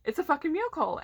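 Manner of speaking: mock celebration. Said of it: "people are like".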